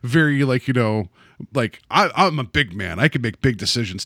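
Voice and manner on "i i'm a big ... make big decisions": big man voice. Retold or imitated. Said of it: "type of voice".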